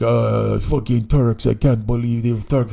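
put-on low, slumped drunken grumble in accent; grumbling drunk Armenian. Passenger slumped down outside his house, drunken accented grumble.

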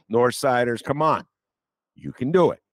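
loud, rallying call across the city. Real, not acted. The speaker urging North Siders to come south, loud rallying call.

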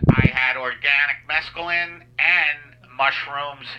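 stoned pilot PA voice. Pretend. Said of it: "this is the pilot".

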